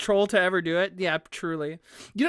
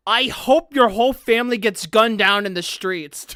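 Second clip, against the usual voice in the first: louder hammed-up hateful line; mock hateful threat; 7 dB louder than usual. Retelling the troll's threat to a Russian user, mock hateful. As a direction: spit it like a cartoon troll. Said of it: "And they're like".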